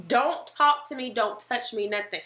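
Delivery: snapping at husband to stay away; mock angry snap. Wife warning husband off, mock angry snap.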